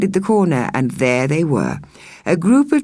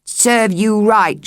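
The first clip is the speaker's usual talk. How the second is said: spat; 6 semitones higher, slower than usual. Acted. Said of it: "she spat".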